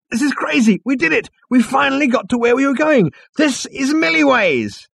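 elated, very high exclamation; Zaphod. A narrator's reading. Zaphod realising they finally arrived, elated high voice. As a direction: exult loudly, far above the narration.

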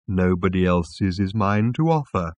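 lightly voiced placid animal; a hint of bovine waiter; contented mooing. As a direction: explain it with mild contentment. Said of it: "mooed the animal contentedly".

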